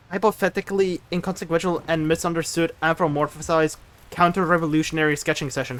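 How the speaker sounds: fast, rattled off in one breath; speed-read the mouthful; rapid tongue twister. Shown as a demonstration. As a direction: rush the long words like a dare. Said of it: "You tried to make me say difficult words".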